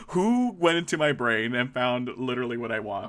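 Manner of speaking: playful outrage with a laugh in it; mock victimized. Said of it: "I felt so personally victimized".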